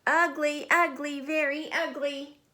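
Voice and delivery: high mocking schoolyard chant; high sing-song taunt; taunting kids. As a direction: sneer it like teasing classmates. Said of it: "the other kids saw her and said".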